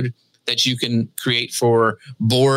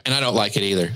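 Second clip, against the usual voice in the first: gentle teasing; 3 semitones lower, faster than usual. Pretend. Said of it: "No, I'm just teasing".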